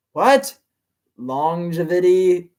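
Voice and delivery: Longevity asked slowly with a rising, puzzled tone; puzzled question. Real, not acted. Reader puzzled by the villain's word, slow baffled question.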